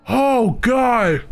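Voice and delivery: startled oh God; shocked shout. Real, not acted. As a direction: yelp it out in disbelief. Shocked by the game.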